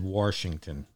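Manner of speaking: Washington with a Baltimore r, Warshington; Baltimore accent. Shown as a demonstration. Host showing listeners his Baltimore Warshington. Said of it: "It's a Baltimore accent".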